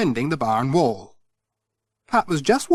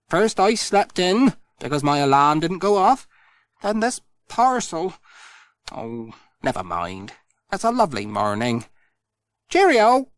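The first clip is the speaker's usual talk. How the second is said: a lightly raised cheery postman voice; cheerful Pat; 5 semitones higher than usual. Acted. Pat tells Missus Goggins it's just one of those days, cheery. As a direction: brush off the bad morning brightly.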